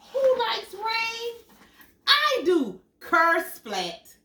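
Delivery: high, loud joyful finish; excited storytelling. Acted. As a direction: end the story with a big splash. Reading picture book aloud.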